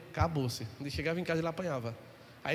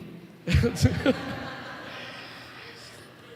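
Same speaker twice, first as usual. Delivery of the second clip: laughing; 3 semitones higher than usual. Real, not acted. Laughs at son's excuse.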